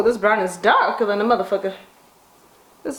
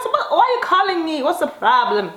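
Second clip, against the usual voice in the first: mother's voice; 6 semitones higher than usual. Retold or imitated. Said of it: "She's like".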